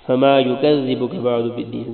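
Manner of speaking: یکذبک with a gentle ذ; spoken demo; soft ذ. Shown as a demonstration. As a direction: soften the ذ. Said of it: "زال کو نرمی سے پڑھنا ہے".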